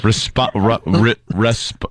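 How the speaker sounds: tripping over responsibility; fumbling through respo ru ri resp; stumbling over the word. Real, not acted. Friends teasing, stumbling over a word while laughing. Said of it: "I'll figure it out".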